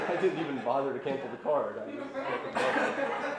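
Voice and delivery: laughing through the words. Real, not acted. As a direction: crack up while telling it. Laughing at own punchline.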